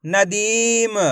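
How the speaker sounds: "नदीम" as one stretched word; teaching read of "नदीम", syllables linked; blended, drawn-out word. Shown as a demonstration. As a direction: hold the ee in "नदीम". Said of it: "तो मिलके बन जाएगा".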